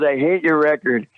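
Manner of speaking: quoting Eddie. Retold or imitated. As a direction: hit HATE hard as Eddie's verdict. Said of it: "He goes".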